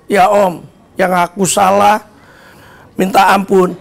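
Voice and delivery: lightly acted contrite apology, slowing down; meek apology. Youngster admitting fault to Om, meekly.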